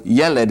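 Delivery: "yeled" said YEH-led, stress first; demonstrated pronunciation. Shown as a demonstration. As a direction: say "yeled" as two syllables, YEH then led. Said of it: "is how that's pronounced".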